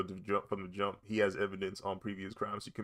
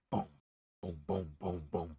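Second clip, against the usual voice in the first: soft, evenly spaced booms; imitated gunshot pops; 3 semitones lower, 5 dB quieter than usual. Describing the pops he heard outside, imitated booms. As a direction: mimic shots one at a time, softly. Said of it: "they were like".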